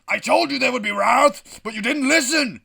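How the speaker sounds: high, loud, wrathful proclamation; God, terrifying and booming. Acted. God orders the mutiny celebration to cease, booming. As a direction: thunder down at the sinners. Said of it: "says God".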